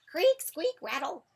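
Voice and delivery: very high, loud squeaks; bed sound effect. A narrator's reading. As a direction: squeak like old bedsprings. Imitated noise of Mouse's bed.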